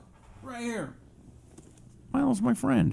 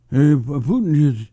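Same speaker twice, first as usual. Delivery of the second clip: a failed Trump that drifts into Jackie Mason; Jackie Mason by accident; 3 dB louder than usual. Retold or imitated. Host tries Trump, lands on a Jackie Mason voice. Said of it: "that's Jackie Mason".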